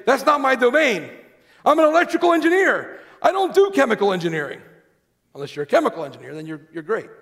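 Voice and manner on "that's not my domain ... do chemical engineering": frustrated. Retold or imitated. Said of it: "you might get frustrated and say".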